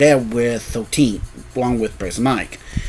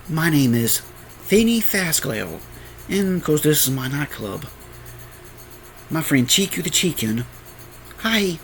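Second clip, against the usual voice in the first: put-on high girl voice; 4 semitones higher, 4 dB quieter than usual. Animatronic girl introduces herself.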